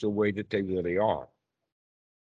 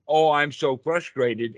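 mock frustrated; 4 semitones higher, 4 dB louder than usual. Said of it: "change my thought from".

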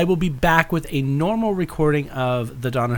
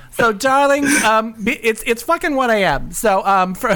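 lightly high diva host; femme fatale; 8 semitones higher, 3 dB louder than usual. Acted. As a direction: coo at the darlings. Hosts in her show persona.

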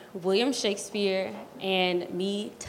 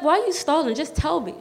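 impatient; 6 semitones higher than usual. Retold or imitated. Impatient demand to her mom.

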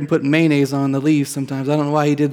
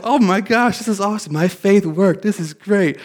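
high, thrilled, much higher voice; excited; 5 semitones higher than usual. Retold or imitated. Seeing the grown plant after work, thrilled and high. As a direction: gush with delight at the plant.

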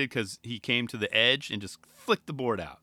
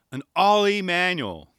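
joking catchphrase; 4 semitones higher, 5 dB louder, slower than usual. Retold or imitated. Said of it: "as the Skatosis podcast always jokes about".

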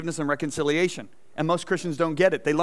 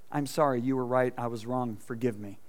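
penitent; 5 semitones lower, 4 dB quieter than usual. Retold or imitated. Voicing repentance softly.

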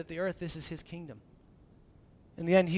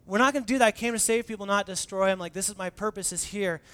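firm; 3 semitones higher, 8 dB louder than usual. Retold or imitated. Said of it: "Jesus is like".

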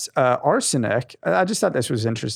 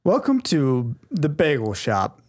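shop clerk; 3 semitones higher than usual. Acted.

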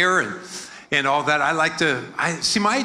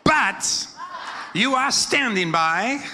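raised call-out; 5 semitones higher, slower than usual. Shown as a demonstration. Congregation call-and-response line.

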